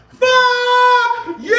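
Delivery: high, loud shouted curse; mock yell. Stranger on the street yelling at the passing speaker, loud. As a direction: fling it at a stranger. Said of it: "she turns and says".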